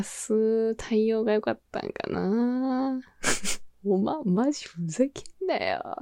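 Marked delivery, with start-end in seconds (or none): 3.9-5.9 put-on hushed whisper of the old outburst; whispered quote. Muttering her regretted comeback to herself, whisper. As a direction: breathe the line under your breath in regret. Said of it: "これだけは絶対に避けたかった".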